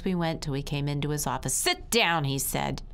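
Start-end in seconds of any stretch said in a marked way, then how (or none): 1.5-2.2 a curt order, pitched higher; lightly voiced stern principal. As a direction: give it as a command. Principal orders child into chair.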